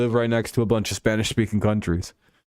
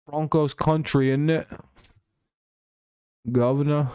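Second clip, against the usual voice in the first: put-on higher, half-hearted British accent; mock British accent; 6 semitones higher than usual. Streamer goofing as a Brit for viewers, mock British accent. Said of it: "or whatever, however British people talk".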